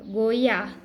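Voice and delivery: "goiá" as one joined syllable; vogais fundidas. Shown as a demonstration. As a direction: glide the three vowels of "goiá" together. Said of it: "eles se juntam e formam somente uma". ("goiá" numa sílaba só)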